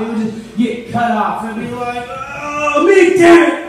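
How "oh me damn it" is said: loud, high exasperated yell; hammed-up road-rage shout; mock angry outburst. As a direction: blow up over a tiny slight. Acted outburst at being cut off.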